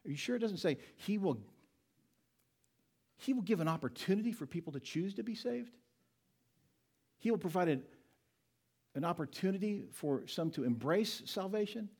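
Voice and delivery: lightly voiced sceptic pushing back; a hint of a know-it-all objector; mock objector. Voicing a doubting objector.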